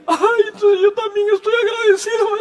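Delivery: put-on the small boy joining in, delighted; little son's voice. Small son joins his father's grateful tears, high laughing child voice. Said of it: "Juan Diego estaba muy pequeño".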